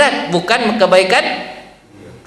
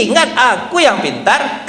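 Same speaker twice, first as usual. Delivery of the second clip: slow, laughing brag; mock smug brag; 5 semitones higher, slower than usual. Imagined Umar boasting to his friends, laughing smugly. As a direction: brag with a chuckle.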